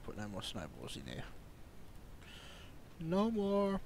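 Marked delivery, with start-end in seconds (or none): 3.0-3.8 hiccup breaking the words. Real, not acted. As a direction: speak through hiccups. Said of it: "I got the hiccups".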